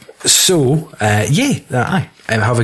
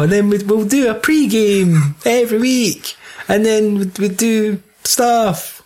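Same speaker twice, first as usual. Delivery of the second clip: higher, slow mock American host voice; Brendan impression; 8 semitones higher, slower than usual. Imitating the American podcaster Brendan, slow mock American accent. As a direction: put on a drawn-out American greeting. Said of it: "yeah, it's Brendan".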